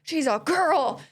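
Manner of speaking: mock yell at a kid in a store; retold yell. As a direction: bark it like an angry dad. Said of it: "turns around and yells at the boy".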